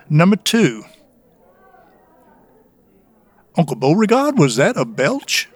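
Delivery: lightly voiced Southern accent reading ratings; a hint of a Georgia Southern accent. Reading beer ratings for a Georgia brewery in a light Southern accent. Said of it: "please give us your deep Southern accent".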